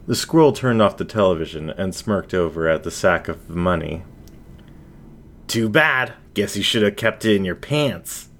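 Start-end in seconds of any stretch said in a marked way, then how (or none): 5.5-8.3 lightly voiced smug sneer to himself; a touch of gloating contempt; mild sneer. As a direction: squirrel mocking the victims over his stolen money, mild sneer. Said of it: "he sneered to himself".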